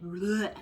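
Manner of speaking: spewed-out "bleh"; mock retching blurt; word vomit. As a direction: blurt it like spilling everything out. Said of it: "just word vomit".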